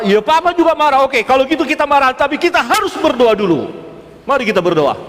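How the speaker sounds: high, mock-heated retort easing at the end; acted marital quarrel. Couple arguing before agreeing to pray, mock indignant.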